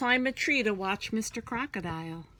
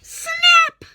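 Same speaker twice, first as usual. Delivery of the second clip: shouted, much higher SNAP; sudden loud snap; 16 dB louder than usual. Acted. Teacher acting the crocodile's bite for children, shouted. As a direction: bark it out like jaws slamming.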